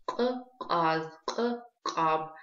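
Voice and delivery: «К-каз», «к-каб» с отдельным резким «к»; отдели гортанное «к» в каждом слове; гортанное к в словах. Shown as a demonstration. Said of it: "практикуйте произношение этих звуков". (слова-образцы по частям, резкое начальное «к»)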